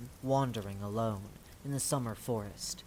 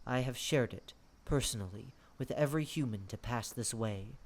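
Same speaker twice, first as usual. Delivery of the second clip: quietly; 2 semitones lower, 5 dB quieter than usual. Acted. The lord offers a tired guest his house, speaking quietly. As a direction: offer shelter gently, in a measured hush.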